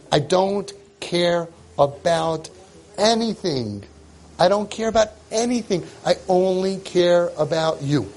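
slow, earnest "I don't care about anything"; lightly voiced tender parent. Parent reassuring the child who broke something, slow and tender. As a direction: reassure the child slowly and sincerely.

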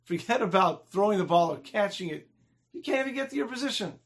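acted playground ridicule; mocking taunt. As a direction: jeer at the kid who fell. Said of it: "they're laughing at him".

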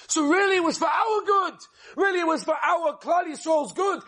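emphatic proclamation. Acted. Preacher proclaiming the lesson.

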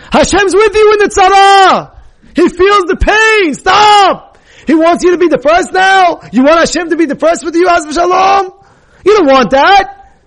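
fervent preaching shout. Real, not acted. Rabbi urging his audience out of depression, loud fervent shout. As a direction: raise it high and loud, pleading with the crowd.

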